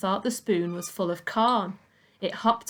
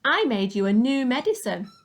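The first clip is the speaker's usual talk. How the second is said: put-on high, eager boy's voice; a young boy pleading his case; George's voice; 5 semitones higher, 4 dB louder than usual. Boy to Grandma, a high insistent boy's voice.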